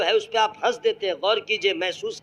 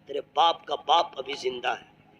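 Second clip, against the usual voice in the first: grandfather's dialogue; 3 semitones lower than usual. Acted. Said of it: "جو dialog مارتا ہے".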